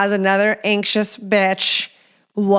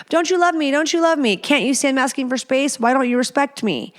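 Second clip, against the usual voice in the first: anxious partner pleading; 5 semitones higher than usual. Acted.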